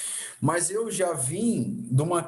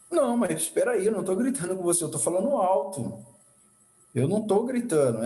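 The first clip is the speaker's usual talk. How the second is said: retold raised-voice protest; 4 semitones higher, faster than usual. Husband insisting to his wife he isn't yelling, mildly raised voice. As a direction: re-enact defending yourself in a lifted pitch. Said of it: "eu começava a subir o tom".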